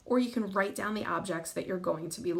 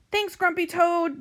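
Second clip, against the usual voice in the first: high, stretched-out thanks; crew's shout; 10 semitones higher, 6 dB louder, slower than usual. A narrator's reading. Pirates thanking the toad, high drawn-out shout. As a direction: call it slowly like a grateful crew. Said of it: "they shout".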